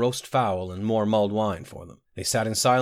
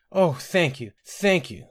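high, tearful gratitude; bursting into tears; 7 semitones higher, slower than usual. A narrator's reading. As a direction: thank them as tears well up. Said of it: "Sinetta burst into tears".

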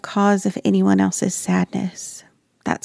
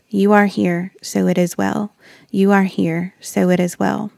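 soothing mantra. Retold or imitated. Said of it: "I tried to repeat something to myself".

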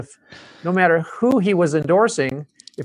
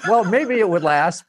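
retold hasty concession, pitched up; sheepish backpedal; 4 semitones higher than usual. Drum maker backing down after Buddy contradicts him, sheepish. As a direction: concede quickly, lightly mocking yourself.

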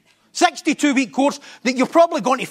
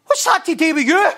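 raised, louder pointed rebuke; Jesus's retort; 5 semitones higher, 3 dB louder than usual. Retold or imitated. Preacher voicing Jesus rebuking Peter, raised and pointed. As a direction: throw the question back at him. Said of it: "this is exactly how he says it".

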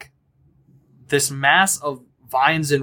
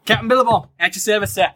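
boisterous captain; 6 semitones higher, faster than usual. Acted. GM greeting the new crew as a brash high-voiced captain. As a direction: bellow a welcome as a brash captain.

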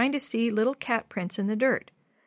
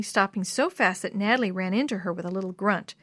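plain reading voice

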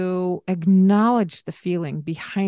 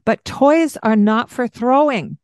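calm firm parent; 4 semitones higher, 5 dB louder than usual. Shown as a demonstration. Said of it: "you hear my voice".

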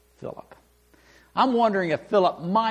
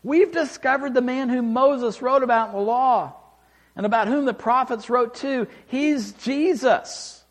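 eager announcement; 5 semitones higher, 3 dB louder than usual. Retold or imitated. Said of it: "making announcements".

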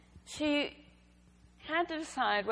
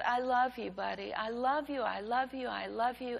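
tenderly reassuring; 2 semitones higher than usual. Retold or imitated. Mother soothes son on bathroom floor.

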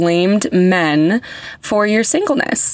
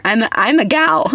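squeak at phrase ends; 5 semitones higher than usual. Real, not acted. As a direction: voice squeaks up on gal. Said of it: "Did you hear that squeak?".

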